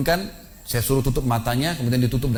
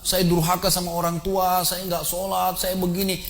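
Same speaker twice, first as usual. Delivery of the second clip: higher-pitched imitation of a tearful penitent; trembling confession; 5 semitones higher, slower than usual. Penitent man confessing to his ustaz before the congregation, imitated trembling confession. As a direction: act out a shaken man pleading repentance.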